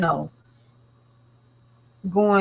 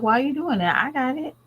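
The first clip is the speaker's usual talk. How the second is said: raised, surprised protest; daughter protesting; 6 semitones higher, faster than usual. Retold or imitated. Daughter telling her mother she's got it, mock higher. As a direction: mimic the daughter saying she has it. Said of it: "And she's like".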